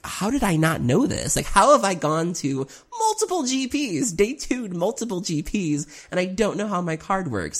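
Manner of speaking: voice breaking. Retold or imitated. Retold self-reproach, breaking.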